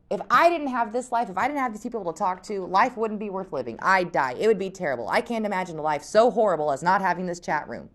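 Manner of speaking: overdoing Jen's drama to mock her. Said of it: "she's saying".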